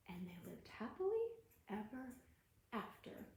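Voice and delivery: hushed storybook whisper; whispered ending. A narrator's reading. Storyteller closing the tale to children in a whisper. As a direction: breathe the last words like a secret.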